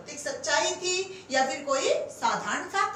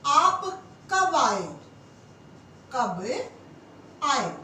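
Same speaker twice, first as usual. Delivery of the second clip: slow dictation; 3 dB louder, slower than usual. Shown as a demonstration. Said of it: "अब कहें कि आपने".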